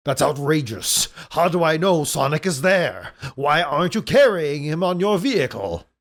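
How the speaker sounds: mildly outraged cartoon villain; lightly hammed-up indignation; indignant Robotnik. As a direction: protest like a put-out villain. Robotnik objects to the deal.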